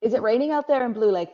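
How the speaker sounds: light Irish lilt, quick and bright; playful Irish accent. Pretend. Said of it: "did you like my Irish accent there".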